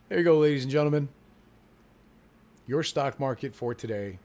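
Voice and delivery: loud, fast showman call; quick loud announcer flourish; mock announcer. Real, not acted. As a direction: announce it to the crowd. Announcing market close to viewers.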